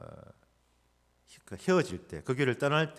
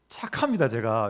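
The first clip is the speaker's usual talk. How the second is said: emphatic claim; 5 dB louder than usual. Real, not acted. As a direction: insist playfully you're nice. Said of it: "제가 좀 착하거든요". (높고 크게 강조한 "착합니다")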